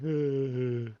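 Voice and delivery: cold, chattering teeth; shivering. Shown as a demonstration. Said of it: "like I'm really cold, like, my teeth are chattering".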